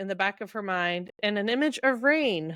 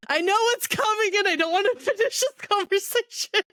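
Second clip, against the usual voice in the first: much higher whiny voice, not wanting to go on; mock whine; 13 semitones higher than usual. Real, not acted. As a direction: whimper it out like you're dreading what's next. Dreading the sad chapter ahead.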